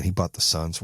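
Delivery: unimpressed, grudging acted envy; jealousy. Showing bad envy of Suns purchase, jealous. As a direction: begrudge him the purchase, no excitement. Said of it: "That's jealousy".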